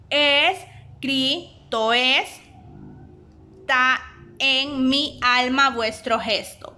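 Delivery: very slow, stretched recitation of the line; scanning the verse. Shown as a demonstration. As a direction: draw the verse out to count its syllables. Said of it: "aquí está separado el verso". (escansión lenta del verso)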